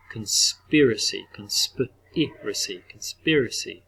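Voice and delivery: conspiracy stretched out slowly; slow teacher demo of conspiracy. Shown as a demonstration. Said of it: "that shorter vowel sound".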